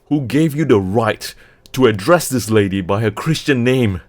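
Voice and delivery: loud, affronted demand; indignant challenge. Acted. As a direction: demand an answer, offended. Leicester challenges the rider.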